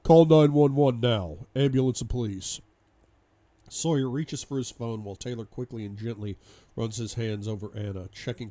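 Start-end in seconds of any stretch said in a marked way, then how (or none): 0.0-2.6 loud, slowed, emphatic order; urgent command. Acted. Man ordering help for an injured woman, urgent command. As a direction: shout it like an emergency order.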